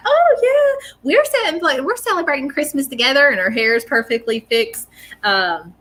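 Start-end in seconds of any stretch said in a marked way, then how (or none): 0.1-3.3 high-pitched nanny impression; older woman's voice. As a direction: imitate an older lady, pitched high and easing down. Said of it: "she's like".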